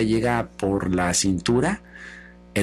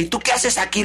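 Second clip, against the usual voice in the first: higher, urgent question; startled challenge; 7 semitones higher than usual. Acted. Air tripping over Sloth while fleeing, startled. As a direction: demand it in a rush.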